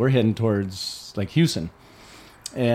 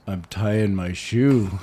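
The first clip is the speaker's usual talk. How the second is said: slow, low, spaced-out voice; stoned guy; 5 semitones lower, much slower than usual. Retold or imitated. The stoned stranger explaining himself to the driver, slow and dazed. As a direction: drag it out like a stoned man. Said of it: "and he goes".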